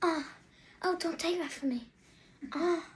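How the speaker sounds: soft retold mumble from bed; quiet, half-asleep imitation; mock groggy moaning. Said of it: "he's on the bed saying".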